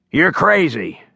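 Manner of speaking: a short jab of anger, lightly played; snapped. A narrator's reading. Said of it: "Leon snapped".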